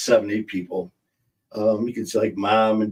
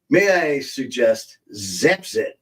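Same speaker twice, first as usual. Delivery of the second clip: mock commercial. Pitching Zapsit to older viewers, mock ad voice. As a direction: sell it like a cheesy acne ad. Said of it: "Don't you wish we had a commercial?".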